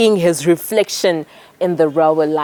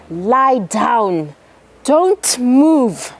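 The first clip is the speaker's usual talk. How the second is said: shouted command; 3 semitones higher, much slower than usual. Acted. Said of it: "And so he shouted".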